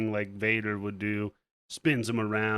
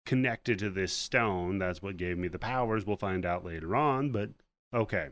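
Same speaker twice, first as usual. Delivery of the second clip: grumbling monster. Retold or imitated.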